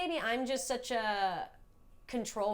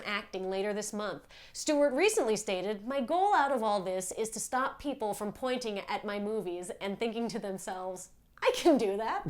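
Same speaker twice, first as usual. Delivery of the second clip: mock anchor news read; 3 dB louder than usual. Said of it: "Here we go. And action".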